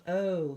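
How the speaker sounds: O said as its own name, long and drawn. Shown as a demonstration. Teacher to kindergarten class, a long O. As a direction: stretch O out like the letter name. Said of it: "make it say its own name".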